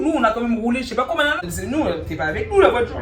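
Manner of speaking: re-enacted loud protest; retold shouting. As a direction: argue back loudly over each other. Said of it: "ça commence à crier".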